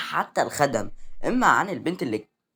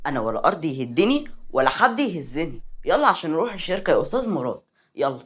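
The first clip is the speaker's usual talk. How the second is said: arrogant. Acted. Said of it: "وقالت بغرور".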